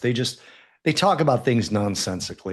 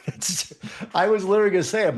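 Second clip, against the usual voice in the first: higher and fast, bursting out; excited laughing rush; 9 semitones higher, faster than usual. Real, not acted. Co-host said his punchline first, excited and fast. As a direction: blurt it out mid-laugh, delighted. Cracking up at shared joke.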